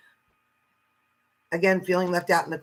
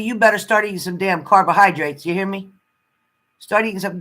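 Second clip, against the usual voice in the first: loud, teasing telling-off; mock scolding; 7 dB louder than usual. Teasing a viewer to eat her carbs, mock scolding. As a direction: boss her around for fun, loudly.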